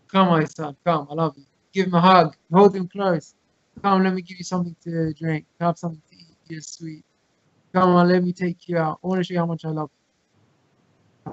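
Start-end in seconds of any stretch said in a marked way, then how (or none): 0.1-1.4 lower, softer fatherly reassurance; comforting father. Acted. Father soothing his crying son after scolding, comforting. 3.8-11.3 comforting father. Acted. Father soothing his crying son after scolding, comforting.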